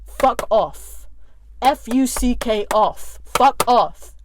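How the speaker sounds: building angry. Real, not acted. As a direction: snap it harder every time. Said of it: "I'm making it plain as day".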